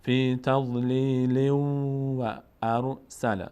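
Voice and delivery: فی تضلیل و ارسل with the nunation merged into waw; idgham. Shown as a demonstration. Teacher demonstrating merging into waw. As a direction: blend تضلیل straight into و ارسل.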